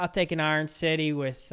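Pittsburgh local ordering a beer; Pittsburgh accent. Acted. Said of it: "You talk like that".

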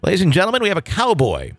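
playful ringmaster intro; mock announcer. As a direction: announce it like a showman, half joking.

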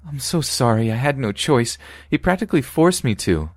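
high crying voice; tearful pleading. Acted. Winnie pleading with her friend, in tears. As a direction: plead and excuse through tears.

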